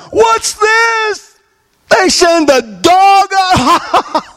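shouted high, then slow and drawn out; scornful giant. Acted. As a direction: bellow like a mocking giant. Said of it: "Goliath is telling".

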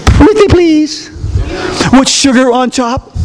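mock wheedling beg; pleading mockingly. Preacher mocking a timid plea to the devil, wheedling. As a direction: beg like a pushover. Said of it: "And I don't mean like".

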